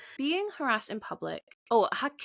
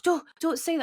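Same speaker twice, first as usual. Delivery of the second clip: higher, imitated motherly correction; embarrassed mum; 8 semitones higher than usual. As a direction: lightly play a mum hushing her child. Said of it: "the mum was like".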